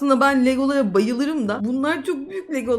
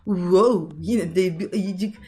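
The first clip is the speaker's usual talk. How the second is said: amazed; 8 semitones lower, much slower than usual. Acted. Sees giant teddy.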